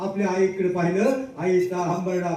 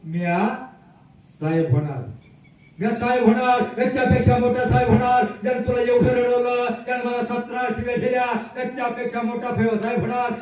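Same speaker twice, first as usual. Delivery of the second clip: higher, resolute declaration; boy vowing before his mother, resolute and raised; determined vow; 4 semitones higher than usual. Retold or imitated. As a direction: swear it like a promise to yourself. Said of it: "एकच वाक्य लिहिलं".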